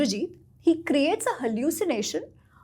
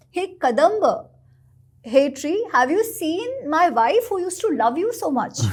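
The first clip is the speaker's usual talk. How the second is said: lightly voiced heartbroken plea, a little higher and quicker; pleading to a tree; 4 semitones higher than usual. Sri Ram begs the Kadamba tree for his wife, mild pleading. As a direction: beg the tree for news of his wife, half acted. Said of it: "So he'll say".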